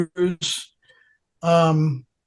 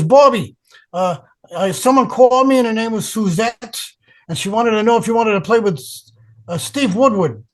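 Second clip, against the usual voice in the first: imitated Bronx accent, slightly raised; Bronx mother; 4 semitones higher than usual. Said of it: "She had a real Bronx accent. She talked like this".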